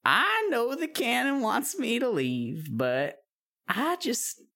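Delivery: put-on weary, pleading old witch. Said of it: "And the witch says".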